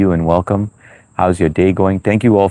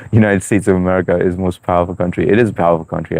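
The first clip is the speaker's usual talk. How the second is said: fast, laughing proud claim; laughing boast; faster than usual. Real, not acted. Boasting about America to chat, fast and laughing. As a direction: brag while still laughing.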